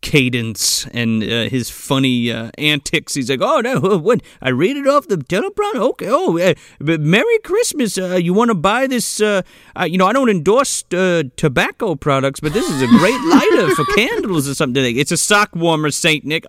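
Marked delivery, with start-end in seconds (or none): 3.4-15.0 rambling Santa. Retold or imitated.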